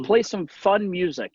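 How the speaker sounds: a hint of a child calling to Alexa; lightly voiced kid. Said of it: "my kids say".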